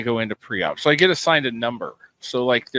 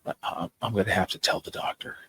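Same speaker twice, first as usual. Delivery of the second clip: lightly voiced doctor, softer and lower; a hint of a grave doctor; quoting the anesthetist warning he will tell the doctor; imitating the doctor; 6 semitones lower, 9 dB quieter than usual. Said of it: "this is what he says".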